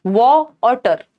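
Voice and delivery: वॉ and टर said as two separate, slow syllables; slow syllable-by-syllable demonstration of वॉ और टर; split into syllables. Shown as a demonstration. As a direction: break वाटर into वॉ, then टर. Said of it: "दो syllable हैं".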